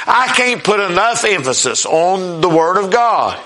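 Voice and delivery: preacher's emphasis on "the Word of God"; emphatic. Real, not acted. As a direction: lean firmly on "Word of God". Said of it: "there's so much emphasis put on it".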